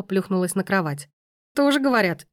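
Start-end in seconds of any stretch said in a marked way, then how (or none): 1.5-2.3 tipsy, slurred and giggly; barely getting her tongue around the words; drunk slurring. A narrator's reading. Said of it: "еле ворочая языком".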